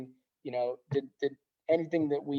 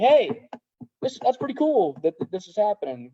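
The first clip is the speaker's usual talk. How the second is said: imitating the doctor; 6 semitones higher, 4 dB louder than usual. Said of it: "He was like".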